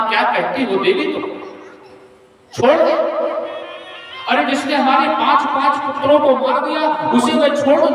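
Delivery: high, heated outraged warrior; indignant Arjun. Acted. Arjun to Draupadi, refusing mercy for her sons' killer, outraged. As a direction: fling the question back in disbelief.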